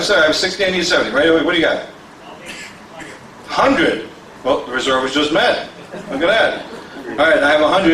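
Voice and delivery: steady rolling auction patter, asking the room for bids; auctioneer bid calling. Acted.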